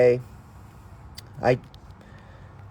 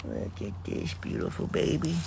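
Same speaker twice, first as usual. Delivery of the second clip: whispering; 4 semitones lower, 6 dB quieter than usual. Real, not acted. Whispered adoration.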